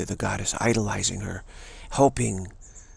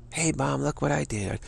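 put-on higher, eager little kid; charming child; 5 semitones higher than usual. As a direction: show off to mom, higher.

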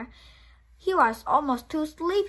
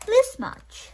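high, loud and proud; eager little hare; 14 semitones higher, 10 dB louder than usual. Acted. Little hare showing his love, high and loud. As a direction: shout it with arms flung wide.

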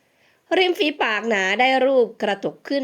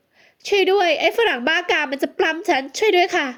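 higher, slow pleading yell; crying for help; 6 semitones higher than usual. A narrator's reading. Heroine bangs the window and yells for help. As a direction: call out so people outside hear. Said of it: "ใช้ปากเป็นอาวุธแทน".

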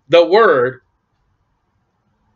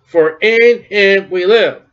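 every word drawn out and weighted; slow it right down and lean on each word; verse repeated slowly for the congregation; slow emphasis; 3 dB louder, much slower than usual. Shown as a demonstration.

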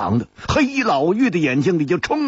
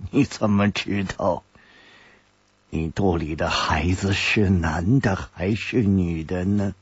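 forced sneer; 8 semitones lower, 3 dB quieter than usual. A narrator's reading. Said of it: "勉强冷笑着说".

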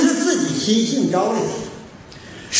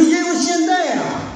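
emphatic declaration; 9 semitones higher than usual. Real, not acted. Preacher declaring verdict.

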